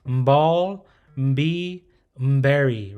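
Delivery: Mbal, mbi, mberi each begun with a hummed m; nasal mba words. Shown as a demonstration. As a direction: hum the m before each b. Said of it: "but it's the nasal sound".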